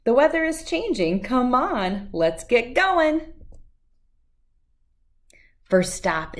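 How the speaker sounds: lively, sing-song read-aloud of a rhyming picture book; bouncy storybook reading voice; reading to children. Acted. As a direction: read it out like story time for little kids.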